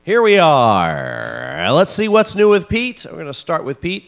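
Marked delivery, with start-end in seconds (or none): 0.0-1.7 drawn out. Real, not acted. Show opener in drawn-out delivery.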